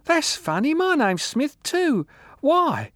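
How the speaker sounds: put-on high, slow sentimental old woman; sappy. A narrator's reading. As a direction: gush it fondly and drunkenly. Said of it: "she added sentimentally".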